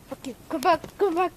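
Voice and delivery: high, loud call after a runaway dog. Real, not acted. Owner calling the dog to come back, loud high call.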